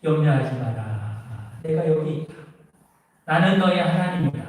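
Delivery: preacher lightly voicing God answering the man; God's voice. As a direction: speak as God, calm and assuring. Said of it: "하나님의 음성이 들리는 겁니다".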